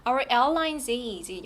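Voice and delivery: "airlines is" slowly, run together; linked sounds. Shown as a demonstration. Teacher shows students the linking, "airlines is" joined. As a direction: carry the final s of "airlines" into "is". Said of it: "연음됩니다".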